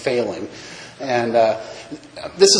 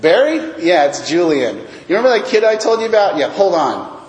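lifted, louder phone-call greeting; therapist phoning a colleague; 5 semitones higher, 4 dB louder than usual. Retold or imitated. Therapist ringing doctor friend before client, casually purposeful. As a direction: jump high on the questions, then settle briskly.

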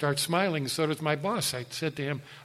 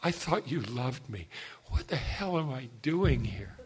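tearful prayer; 6 dB quieter than usual. Retold or imitated. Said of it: "I looked up at God in tears".

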